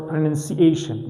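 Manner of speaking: pronunciation with the AY syllable stressed; pronunciation as pro-nun-ci-AY-shun, falling at the end. Shown as a demonstration. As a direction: lean on the A before -tion in pronunciation. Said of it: "My stress is on A".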